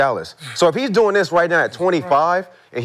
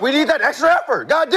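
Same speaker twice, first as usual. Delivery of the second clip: laughing; 8 semitones higher than usual. Real, not acted. Mocking effort teaching, laughing.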